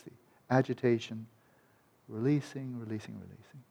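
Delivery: guided meditation. Shown as a demonstration. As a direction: breathe it out gently with them. Guides breath-by-breath releasing.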